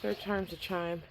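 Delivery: stiff, numb lips from the cold; words mushed by a frozen mouth. Real, not acted. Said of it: "my mouth is frozen".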